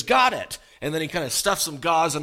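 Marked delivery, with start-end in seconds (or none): 0.0-0.6 high loud got it, imitating the dentist; triumphant exclaim. Old dentist yanking the tooth, loud triumphant cry. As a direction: crow it out like you just won.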